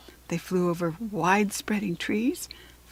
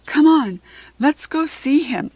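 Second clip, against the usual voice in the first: higher, louder urging; rally the girls; eager fairy; 6 semitones higher, 7 dB louder than usual. A narrator's reading. Savannah urging friends toward the foal, eager.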